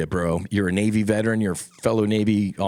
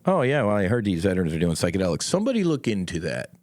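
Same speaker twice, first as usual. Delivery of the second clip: lightly voiced dismissive official, brushing it off; mocking a bureaucrat; faster than usual. Veteran mocking a Washington official who brushes off psychedelics. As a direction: shrug it off like a DC bureaucrat. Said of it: "I don't need you in D C going".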